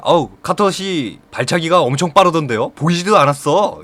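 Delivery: butter him up with mild admiration; flattering lip service. Acted. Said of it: "이렇게 한번 립 서비스를 해주니까".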